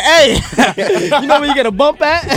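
laughing. Retold or imitated. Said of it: "making a phone calls like".

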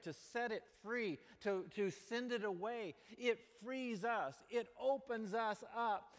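drawn-out, earnest sermon delivery; slow the preaching right down and lean in; a slow, building sermon on grace. Acted.

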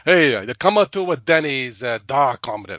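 put-on half-hearted comic Russian accent; bad Russian accent. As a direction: attempt a Russian accent and fumble it. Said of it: "I can't do my Russian accent".

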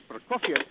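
Prokofiev in three syllables, pro-KOF-yev; correct pronunciation. Shown as a demonstration. Caller repeating the correct name for the hosts, three syllables. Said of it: "it should be three syllables".

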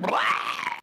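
loud mock outburst of noise; blurted outburst. Husband showing how his feelings came out, blurted outburst. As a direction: spew it out in one burst. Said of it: "my feelings would come out like".

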